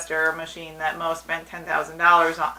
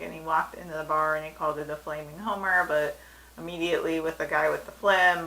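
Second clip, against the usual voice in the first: ordinary talk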